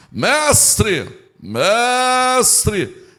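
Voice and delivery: hammed-up churchy address to a teacher; religious voice. Law expert hailing Jesus in public, hammed-up religious voice. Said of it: "voz de religioso, Jesus conhece de longe".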